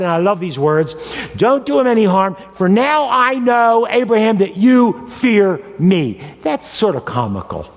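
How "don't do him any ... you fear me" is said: voice of God. Acted. God speaks to Abraham.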